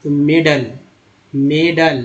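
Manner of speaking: मेडल with a short schwa ending, "MAY-dul"; correct pronunciation demo. Shown as a demonstration. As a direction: model मेडल firmly, last vowel a short "uh". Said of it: "यहाँ ए को अ पढ़ा जा रहा है".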